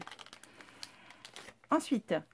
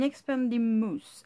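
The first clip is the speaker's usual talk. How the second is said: showy English accent; 3 semitones higher, 5 dB louder, much slower than usual. Shown as a demonstration. Vlogger presenting a product, self-mocking English accent. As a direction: belt out the English name with a French-tinged accent. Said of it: "mon accent anglais, il pète tout".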